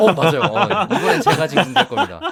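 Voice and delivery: high, loud laughing voice.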